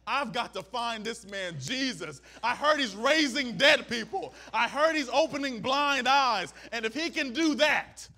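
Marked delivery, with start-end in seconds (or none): 2.4-8.1 excited leper. Retold or imitated. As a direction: push it out with desperate hope. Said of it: "He said, No".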